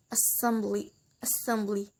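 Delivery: "assembly" said softly with stress on "-sem-"; second-syllable stress. Shown as a demonstration. Teacher shows an exception, softly stressing "-sem-" in "assembly". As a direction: put the weight on the middle of "assembly". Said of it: "the stress put in the second syllable".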